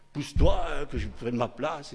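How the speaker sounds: hammed-up child claiming a seat; childish shove. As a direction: shove a sibling aside. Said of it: "comme on fait les enfants".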